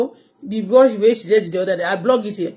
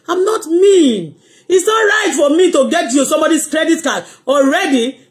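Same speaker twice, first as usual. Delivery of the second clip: emphatic protest; 5 semitones higher than usual. Retold or imitated. Helper refusing the credit card, emphatic protest. Retelling her protest to the doctor.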